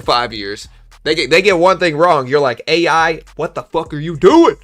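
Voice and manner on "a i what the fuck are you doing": higher, louder mock rant at the chatbot; yelling at AI. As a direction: scold the AI like a furious boss. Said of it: "'cause I definitely yell at A I".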